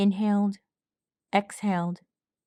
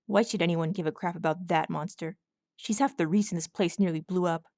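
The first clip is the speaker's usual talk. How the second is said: put-on bitter older colt; 2 semitones lower than usual.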